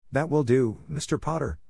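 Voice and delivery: crisp, firm professor cutting him off; stern witch halting the boy, crisp; crisply. A narrator's reading. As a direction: clip the words, a brisk stop. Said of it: "Professor McGonagall said crisply".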